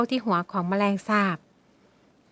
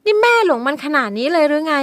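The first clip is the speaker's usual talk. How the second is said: high, loud, upset protest; arguing tearfully; 5 semitones higher, 8 dB louder than usual. Acted. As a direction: plead in disbelief. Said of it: "ชมดาวเถียงแม่เสียงสั่น".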